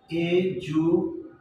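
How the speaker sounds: এডুকেশন said very slowly, each syllable clear; এডুকেশন in slow, careful correct form; correct pronunciation. Shown as a demonstration. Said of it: "এইটা ঠিক হয়েছে".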